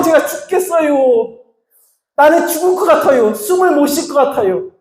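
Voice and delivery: high, whining Chungcheong dialect complaint to God; whiny Chungcheong grumbling. Retold or imitated. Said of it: "충청도 말로 꼬라지를 부려요".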